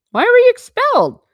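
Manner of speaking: high, loud, pointed demand; playful accusing yell; mock demanding shout. Real, not acted. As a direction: call him out, high and loud.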